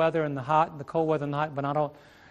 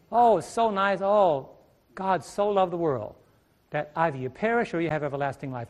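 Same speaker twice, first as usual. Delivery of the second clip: California style. Retold or imitated. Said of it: "That's how they say it in California".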